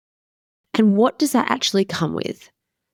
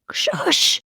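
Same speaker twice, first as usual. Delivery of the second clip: hushed, sharp shush; shushing whisper; 10 semitones higher than usual. Retold or imitated. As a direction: whisper it to cut him off. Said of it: "I was like".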